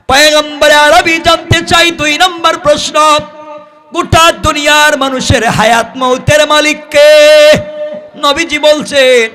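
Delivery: high, loud ringing sermon delivery; full-force preaching. Acted. Preacher putting Jibrail's second question to the Prophet, full-force high preaching. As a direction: belt it out high to the congregation.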